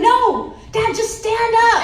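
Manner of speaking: high, loud laughing yell; yelling at dad. Retold or imitated. Daughter yelling at Dad, who could just stand, laughing shout.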